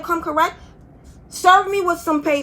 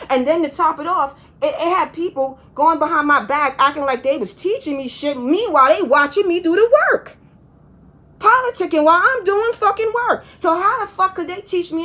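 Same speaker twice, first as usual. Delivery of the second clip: calm turning angry; 4 semitones higher, 3 dB louder than usual. Real, not acted. Rant about coworkers builds up.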